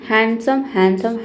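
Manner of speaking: हैंडसम as "han-sum", D left out; silent D. Shown as a demonstration. Teacher repeats the new word, silent D. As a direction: model हैंडसम with N straight into S. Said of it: "इसे हैंडसम पढ़ेंगे".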